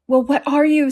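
high, demanding bird; challenging pigeon. A narrator's reading.

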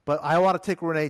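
normal talking voice

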